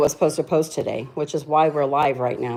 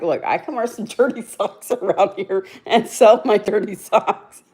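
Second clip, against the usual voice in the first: joking sales pitch; 3 semitones higher than usual. Pretend. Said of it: "I'm like".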